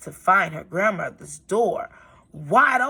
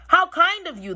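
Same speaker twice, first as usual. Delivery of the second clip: sly wolf; 11 semitones higher, 3 dB louder than usual. Acted. Wolf voiced in story.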